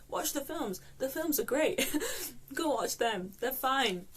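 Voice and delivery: upbeat. Real, not acted. Switching to cheerful recommendation.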